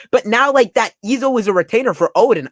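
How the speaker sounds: high, loud disbelief; incredulous amazement. Real, not acted. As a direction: still reeling from the reveal. Astonished again at the reveal.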